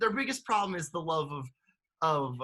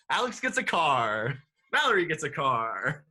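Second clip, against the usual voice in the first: game show announcer. Pretend. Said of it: "Why am I doing the game show announcer voice?".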